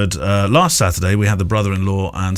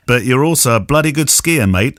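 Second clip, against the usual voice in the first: a bad Australian accent, laughing into it; a hammed-up Australian accent; 5 semitones higher than usual.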